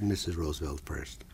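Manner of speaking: unvoiced prompting whisper. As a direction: whisper the answer quickly. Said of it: "Ross McIntyre said".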